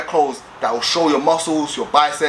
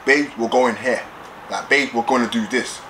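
assertive voice; 2 semitones lower than usual. Acted. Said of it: "assertive voice".

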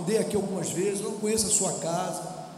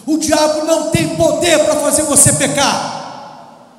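preaching shout; 6 semitones higher, 12 dB louder than usual. Real, not acted. Preacher thundering against the devil.

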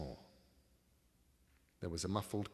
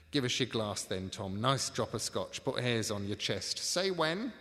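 falsely friendly crook; 2 semitones higher, 7 dB louder than usual. Acted. Crook offering drink.

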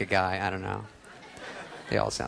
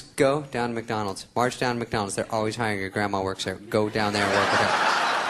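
stern mom. Retold or imitated. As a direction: order him like a stern mom. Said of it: "She goes".

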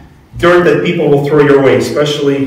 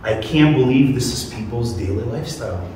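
awed disbelief; 3 semitones lower, 9 dB quieter than usual. Retold or imitated. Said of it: "I've heard many testimonies like".

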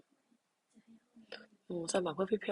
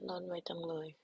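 whisper; 9 dB quieter than usual. Shown as a demonstration. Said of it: "repeats in whisper".

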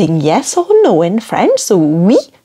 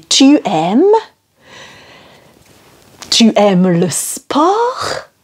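slow clear question; 3 semitones higher, slower than usual. Shown as a demonstration. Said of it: "So I'm gonna say".

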